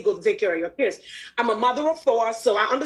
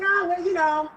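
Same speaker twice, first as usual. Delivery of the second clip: mock timid self; 5 semitones higher than usual. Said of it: "I would just say".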